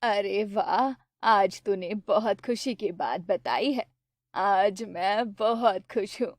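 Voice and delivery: mother pleased with her son's news; happy mother. Acted. Narrator voices the mother. (धीमी, खुश माँ की आवाज़)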